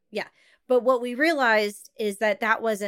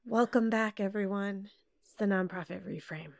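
somber; 7 dB quieter than usual. Acted. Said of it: "go somber".

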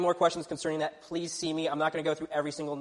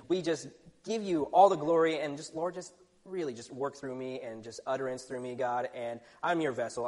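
prayer. Acted. Youth pastor praying before his sermon, softening to a hush. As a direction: pray over the congregation, humbly.

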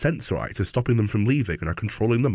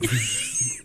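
wheezy laugh; 3 dB quieter than usual. Real, not acted. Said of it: "Stop making me wheeze".

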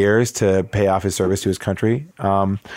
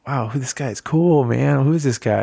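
put-on higher, amazed kid voice; a lightly voiced wide-eyed boy; imitating his eight-year-old self; 5 semitones higher than usual. The boy reacting to meeting Jackson, lightly voiced awe. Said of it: "And I was like".

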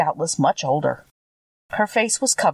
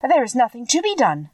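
calmly; 6 semitones higher than usual. A narrator's reading. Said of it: "said the little woman calmly".

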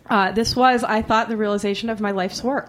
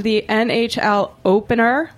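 drawn-out Boston opener; Boston accent. Shown as a demonstration. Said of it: "as I've been calling it all day".

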